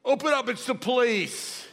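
high, loud kiddie police shout; small child playing cop. Grandchild of four at the door, shouted play command. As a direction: imitate a little kid yelling a raid.

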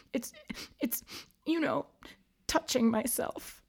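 high, halting, sniffly confession; hesitate, too ashamed to say it; embarrassed ghost. A narrator's reading. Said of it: "sniffling through her tears".

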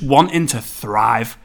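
Scouse accent slipping through mid-sentence; Scouse accent slip. Real, not acted. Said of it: "Scouse accent coming through".

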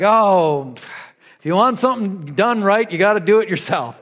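mild mock exasperation, as if fed up with helpers; exasperated. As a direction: let out an oh, then grumble it lightly. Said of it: "can you hear the exasperation".

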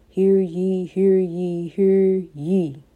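booming town crier call; grand rich voice. Acted. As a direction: proclaim it like a herald.

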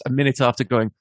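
usual speaking voice

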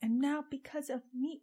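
put-on high, childish line reading; childlike voice. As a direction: imitate an actress sounding like a little kid. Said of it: "she sounds like a child".

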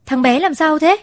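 high, loud alarmed question. A narrator's reading. Father comes home to find his son hurt, high loud alarm. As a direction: burst in frightened, demanding answers. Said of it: "hốt hoảng".

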